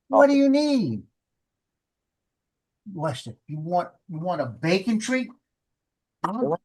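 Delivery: high coaxing voice to the dog; pet talk. Real, not acted. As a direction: coax the dog sweetly. Owner coaxing dogs with treats.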